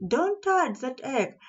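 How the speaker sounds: shrill sharp voice. Acted. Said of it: "she cried in a shrill, sharp voice".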